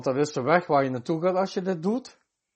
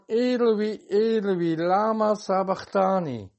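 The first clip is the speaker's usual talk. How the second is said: slow, measured calling out, mildly raised; retold loud cry; 4 semitones higher, slower than usual. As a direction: quote Jesus crying out, drawn out at the end. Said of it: "riep Jezus met luide stem".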